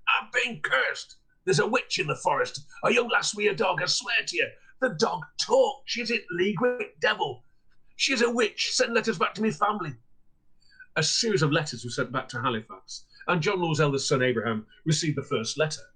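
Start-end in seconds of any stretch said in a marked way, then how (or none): 0.1-9.9 high, panicked shouting; frantic shout. Acted. Cursed peddler raving at the inn, frantic shout. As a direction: cry out that a witch cursed you. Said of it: "he shouted".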